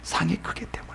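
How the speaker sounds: hushed and barely voiced; whispered answer. Real, not acted. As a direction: drop away to a whisper. Preacher answers own question.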